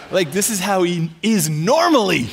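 loud, incredulous outburst; mock horror at the discovery; aghast realisation.

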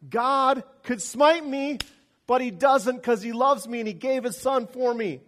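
mock believer, loud and high; mock smug believer. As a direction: crow it like a complacent churchgoer. Preacher voicing believer's smug thought.

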